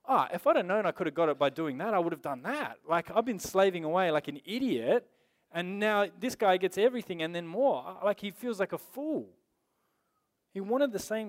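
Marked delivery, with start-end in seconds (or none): 0.0-7.8 imitating furious complaint. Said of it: "He's furious because he's like".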